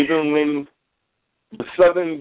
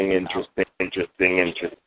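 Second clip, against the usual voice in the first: mock musing; 13 semitones lower, 5 dB quieter, much faster than usual. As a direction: repeat "interesting" low and knowing, like a sly hum. Mock pondering, repeated word.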